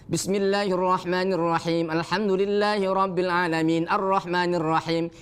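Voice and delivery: pausing and joining mixed up; muddled recitation. Shown as a demonstration. Teacher showing a confused reading between stopping and joining. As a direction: blur the stops without clear breaths. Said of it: "Ini nggak jelas ini".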